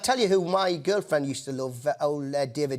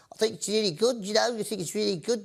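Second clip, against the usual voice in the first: a Norwegian speaking English in Scouse; muddled Scouse, mistakable for Norwegian; attempted Scouse accent; faster than usual. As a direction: put on a shaky attempt at Scouse. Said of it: "Is that a Norwegian accent?".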